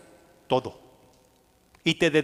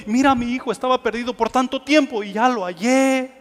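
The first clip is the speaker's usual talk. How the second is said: higher, delighted news to a neighbor; joyful telling; 5 semitones higher than usual. Retold or imitated. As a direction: share the news beaming. Telling neighbor about found child. (contándole feliz al vecino)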